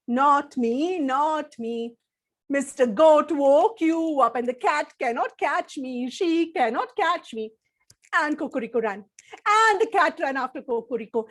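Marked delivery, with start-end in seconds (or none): 0.1-7.5 rooster voice. Acted. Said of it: "Cocorico said".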